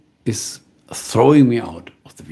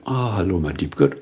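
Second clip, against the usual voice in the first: low cat voice; 3 semitones lower than usual. Retold or imitated. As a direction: coo down to the cat. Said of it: "He had a completely different voice".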